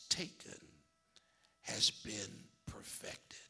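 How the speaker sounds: hushed sermon whisper. Real, not acted. Pastor whispering the important part to the church, hushed. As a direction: lean in and whisper it. Preacher drops to hushed aside.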